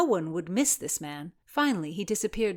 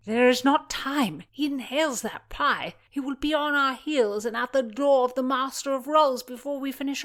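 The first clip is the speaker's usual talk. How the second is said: put-on higher, scheming young page; young girl voice; 7 semitones higher, 4 dB louder than usual. A narrator's reading. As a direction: plot it out quickly. Voices Philomena.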